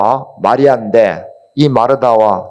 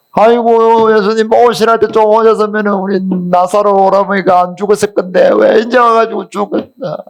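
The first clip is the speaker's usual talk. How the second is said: wailing lament; 7 semitones higher than usual. Retold or imitated. Martha wailing at Jesus for coming too late. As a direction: wail it like a mourner at a funeral. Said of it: "막 더 크게 막 대성통곡을 하는 거예요".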